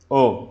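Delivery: "ओ" as a pure, unobstructed vowel; isolated "ओ" sound, cleanly voiced; open vowel demonstration. Shown as a demonstration. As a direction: let the air out freely on "ओ". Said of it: "किसी भी speech organs को interrupt नहीं करती".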